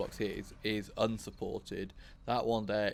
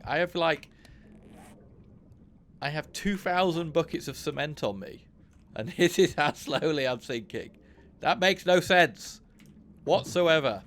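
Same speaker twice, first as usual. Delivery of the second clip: louder, higher, exasperated complaining; frustrated rant; 7 semitones higher, 6 dB louder than usual. Real, not acted. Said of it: "Getting frustrated".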